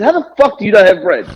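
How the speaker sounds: retelling the outburst through laughter; a mock outraged question, half laughing; laughing retort.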